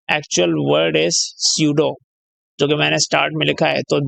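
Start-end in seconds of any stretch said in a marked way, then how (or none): 0.1-1.9 very slow, word by word, like dictating notes; slow dictation. Acted. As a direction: spell out the term for students to write down. Dictates the term slowly.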